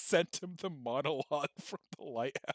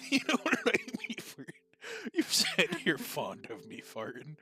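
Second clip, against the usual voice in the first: higher, laughing sailor voice; old sailor voice; 5 semitones higher than usual. Retold or imitated. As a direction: squeal it like a salty old seaman. Dafoe impression, laughing.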